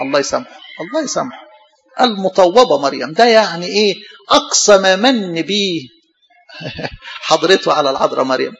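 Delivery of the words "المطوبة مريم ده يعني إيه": mocking sneer. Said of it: "آه، مطوبة".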